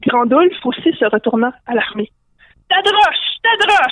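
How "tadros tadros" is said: high-pitched creature cry; cry of alarm. Acted. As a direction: call it out high, like a little creature raising the alarm. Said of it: "il entendit un cri d'alerte". (cri d'alerte aigu)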